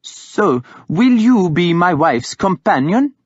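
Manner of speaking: a hint of a breezy king asking a favour; cheerful. A narrator's reading. Guthred asking Hild to serve his wife, mildly cheerful. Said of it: "he asked her cheerfully".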